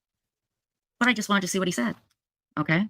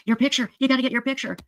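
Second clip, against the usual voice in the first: crowd yelling; 9 semitones higher than usual. Retold or imitated. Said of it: "I hear people yelling at me".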